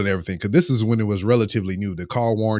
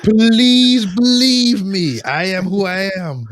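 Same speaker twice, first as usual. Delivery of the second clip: much higher, very slow, hammed-up plea; mock pleading; 9 semitones higher, 4 dB louder, much slower than usual. Insisting to the caller he is who he says he is, hammed-up slow plea. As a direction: beg dramatically, stretching every word.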